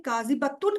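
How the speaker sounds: کاذبتن with a short, unstretched ب; کاذبتن said with short a before tun. Shown as a demonstration. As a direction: keep the ba brief in کاذبتن. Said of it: "اب آپ ذرا فرق دیکھیں".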